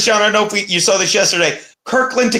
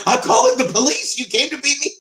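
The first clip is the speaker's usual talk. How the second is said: mock alarmed neighbor; 8 semitones higher than usual. Imagined neighbor reacting to the knock.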